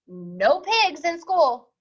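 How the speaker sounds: slow, firm no; stern principal. Acted. Principal refusing the pig entry, slow and firm. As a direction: lay down the rule slowly.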